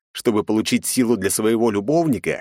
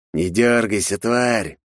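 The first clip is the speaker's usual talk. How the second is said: hissed; 4 semitones higher, slower than usual. Acted. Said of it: "прошипел Тейнер".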